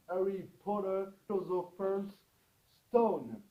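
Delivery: Harry Potter, Philosopher's Stone in a hammed-up English accent; a playful French try at an English accent; mock English accent. Shown as a demonstration. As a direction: show off a proud but so-so English accent. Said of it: "avec mon magnifique accent, euh, anglais".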